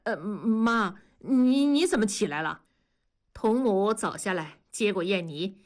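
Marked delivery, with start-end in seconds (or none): 0.0-2.6 frightened stutter to his stern mother; stammering in fright. Acted. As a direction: caught out, stumbling over every word. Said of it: "结结巴巴地说". (被母亲撞见，吓得结结巴巴)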